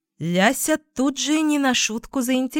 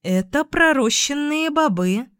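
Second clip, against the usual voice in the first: nervous; 7 semitones higher than usual. A narrator's reading. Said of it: "чувство страха".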